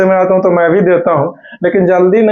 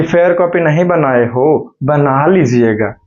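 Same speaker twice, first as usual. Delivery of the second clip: mock sweet teacher; 2 semitones lower, slower than usual. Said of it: "इतना प्यार से बोला है".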